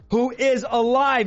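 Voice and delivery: slow, stretched-out preaching emphasis; deliberately slow. Real, not acted. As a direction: spell it out slowly for slow listeners. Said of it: "I'm talking slow".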